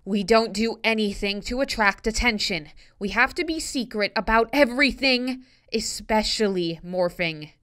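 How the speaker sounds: put-on high, loud, emphatic girl voice; firm rule-giving. A narrator's reading. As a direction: lay down the law, high-pitched. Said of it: "Rachel announced firmly".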